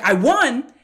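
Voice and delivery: as if she can't believe she won; surprised disbelief. Retold or imitated. Swimmer to her coach after the race, stunned and disbelieving. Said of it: "And she was surprised".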